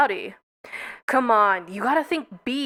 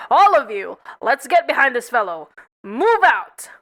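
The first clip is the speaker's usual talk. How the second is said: commanding shout; 5 dB louder than usual. Acted. General rallies the squadron.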